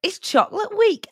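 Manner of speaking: high-pitched attempted presenter impression; Alison Hammond. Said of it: "I've been practicing my Alison Hammond".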